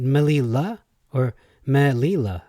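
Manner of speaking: "Melila" run together as m'lee-LA, then split meh, LEE-la; bunched versus separated syllables. Shown as a demonstration. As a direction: contrast a joined "Melila" with a separated one. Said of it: "do they bunch up the syllables".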